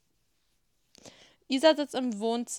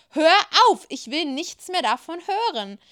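loud, high outburst at the start; the father angrily silences the couple; angry outburst; 7 semitones higher, 6 dB louder than usual. Acted. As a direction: cut them off in anger. Father cuts them off.

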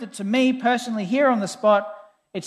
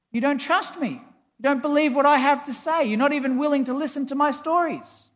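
higher-pitched, mildly indignant appeal; offended friend arguing back, pitched up; frustrated protest; 5 semitones higher than usual. Retold or imitated. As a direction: retell an exasperated plea to a friend. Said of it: "so frustrates me about atheists".

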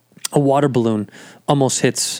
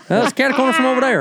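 high laughing delivery, much higher; laughing mock; 12 semitones higher than usual. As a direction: laugh through the phrase in a silly high voice. Mocking the phrase, laughing.

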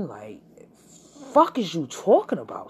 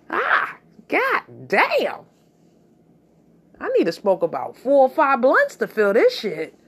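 shocked reaction; 7 semitones higher, 5 dB louder than usual. Retold or imitated. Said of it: "I was like".

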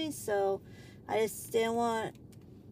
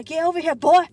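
louder, higher mock Southern rancher call; old Southern drawl; 5 semitones higher, 12 dB louder than usual. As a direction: bark it like a cowboy ancestor on a horse. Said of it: "my ancestors on the horse".

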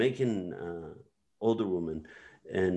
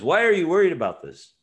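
Death asking; 9 semitones higher, 7 dB louder, faster than usual. Retold or imitated. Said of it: "Death asks".

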